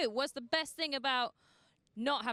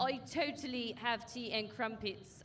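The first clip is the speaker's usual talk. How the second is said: a playful put-on English accent; fake English accent. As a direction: joke posh English accent, lightly done. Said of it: "I do a fake English accent".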